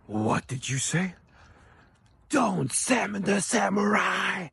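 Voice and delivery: slow, menacing mock Ukrainian accent rising high; a Ukrainian professor threatening the class, drawn out; angry Ukrainian professor. Student mimics her professor snapping at a girl, Ukrainian accent. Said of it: "thick Ukrainian accent".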